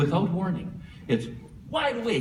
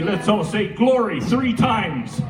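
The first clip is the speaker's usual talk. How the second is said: preacher call; 3 dB louder, slower than usual. Retold or imitated. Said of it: "lead the congregation".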